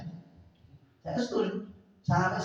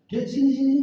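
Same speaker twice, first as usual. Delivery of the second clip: put-on higher, louder call to the boy; 7 semitones higher, 8 dB louder than usual. Stall singers calling the young traveller over, loudly. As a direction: summon the kid across the street.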